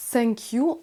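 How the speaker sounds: "thank you" starting with an S sound. Shown as a demonstration. Teacher warns French learners off a common mistake, "thank you" begun with S. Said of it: "comme un S".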